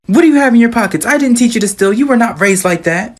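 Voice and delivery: high-pitched mock scolding; yelling mom. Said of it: "mom starts yelling at him".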